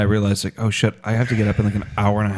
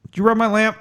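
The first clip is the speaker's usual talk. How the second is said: mock genie; 12 semitones higher than usual. Genie bit.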